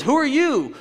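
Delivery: high, swooping question; astonished, pitched well up; bewildered question. Acted. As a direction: plead to know who this is. Acting out Paul questioning God.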